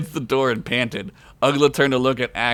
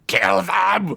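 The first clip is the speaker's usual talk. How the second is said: raised battle shout; 7 semitones higher than usual. Acted. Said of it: "thing shouted".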